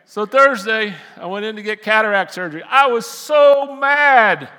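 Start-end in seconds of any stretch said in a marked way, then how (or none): 2.6-4.5 loud, drawn-out, high-pitched anger; worked-up preacher venting fury; exasperated outburst. Retold or imitated. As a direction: blast it out, stretching each word. Retelling anger about surgery.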